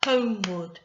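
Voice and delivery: HOMEWARD loud, in two beats; clapped beats. Shown as a demonstration. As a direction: mark both syllables, HOME-WARD. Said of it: "I'm going to clap as I say the word".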